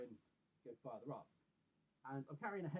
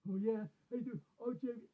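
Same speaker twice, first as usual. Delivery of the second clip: much higher, louder mock-chummy greeting; sudden friendly switch; 8 semitones higher, 7 dB louder than usual. Aggressive neighbour switching demeanour after his mistake, mock-friendly. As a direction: imitate an over-friendly hello, high and loud. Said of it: "he then completely changed his demeanour".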